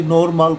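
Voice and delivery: "नॉर्मल" as nor-maal, long AA at the end; nonword reading. Shown as a demonstration. Teacher dismisses a misreading, "नॉर्मल" as nor-maal. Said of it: "नॉर्मल कोई शब्द नहीं होता".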